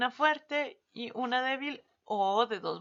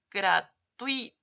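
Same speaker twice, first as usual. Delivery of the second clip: "gratuito" stretched slowly, a bit louder; slow example word; 5 dB louder, much slower than usual. Shown as a demonstration. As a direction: say "gratuito" slowly so they hear the vowels stay together. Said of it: "¿Se dan cuenta?".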